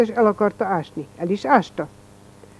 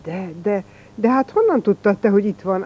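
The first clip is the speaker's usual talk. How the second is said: stammering shock. Acted. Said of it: "ájuldozott Müller".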